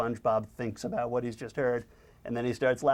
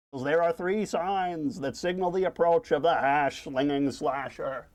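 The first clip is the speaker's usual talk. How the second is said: higher, spooky storytelling voice; ghost-story teller; 3 semitones higher than usual. Acted. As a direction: tell a spooky campfire tale as a cartoon character. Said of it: "Squidward tells a ghost".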